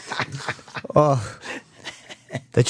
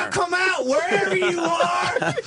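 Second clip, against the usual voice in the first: put-on southern accent; 13 semitones higher than usual. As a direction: call out like a southern cartoon villain. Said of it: "You can see my southern accent".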